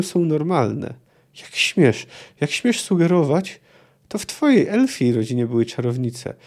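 reading a novel aloud, steady and measured; measured literary reading; story narration. A narrator's reading. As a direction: tell it like an audiobook narrator. Reads parents' quarrel from childhood.

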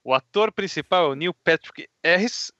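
lisping through a gap in the teeth; missing tooth. Real, not acted. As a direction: talk around a broken tooth. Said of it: "ele não consegue pronunciar".

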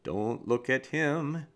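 slow, drawn-out self-warning, lightly acted; reluctant dog's thoughts. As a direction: lightly voice a dog avoiding eye contact. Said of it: "as you're forcing this dog to look".

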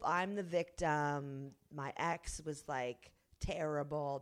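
slow, self-pitying whine; whiny ex impression. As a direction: drag it out like a victim. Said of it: "The whole".

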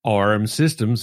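"R" said with a hard American r; Boston-understood R. Shown as a demonstration. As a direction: sound the r fully in "R M Systems". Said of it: "I had to say".

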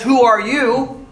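slow, high "Who are you?"; drawn-out divine challenge; God challenging. Retold or imitated. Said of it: "this God who walks up and says".

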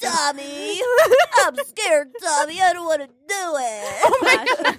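lightly voiced scared cartoon toddler; hesitant mock-frightened little kid; Chuckie from Rugrats. Playing a scared toddler pleading with a friend, mock timid. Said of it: "You sound like Chucky from, from Rugrats".

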